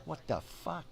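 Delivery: startled outrage. Retold or imitated. Hit in the ribs.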